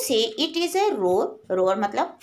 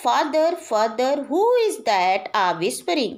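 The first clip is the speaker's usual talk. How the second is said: slow poem recitation; much slower than usual. Acted. Teacher reading the poem line to her class, slow and measured. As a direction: draw out each word slowly, recitation style.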